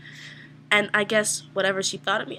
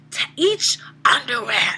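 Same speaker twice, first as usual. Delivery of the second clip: hushed, breathy whisper; murmured under the breath while watched; 5 semitones higher, 5 dB louder, slower than usual. Retold or imitated. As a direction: whisper it like a guilty secret. Shopkeeper checking each thong.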